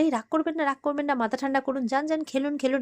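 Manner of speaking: put-on calm him down like a child, lightly; mock soothing. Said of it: "এভাবে বলছে".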